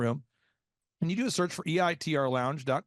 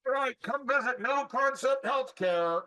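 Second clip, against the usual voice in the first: loud sharp voice; 7 semitones higher than usual. Retold or imitated. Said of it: "Why are you yelling at me?".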